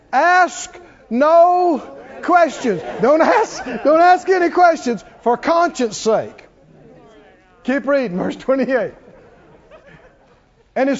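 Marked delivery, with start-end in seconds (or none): 0.1-6.4 slow, loud and higher, half laughing; emphatic preaching. Acted. Preacher to the congregation, a loud slow emphatic "Ask no questions". Preacher drives the verse home.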